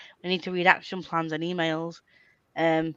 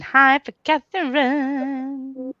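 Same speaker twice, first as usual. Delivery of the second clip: reading a message aloud; 7 semitones higher, slower than usual. Retold or imitated. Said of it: "we're saying".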